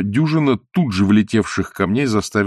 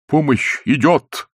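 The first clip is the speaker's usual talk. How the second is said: shouting back; 6 semitones higher, slower than usual. A narrator's reading. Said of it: "выкрикивал в ответ".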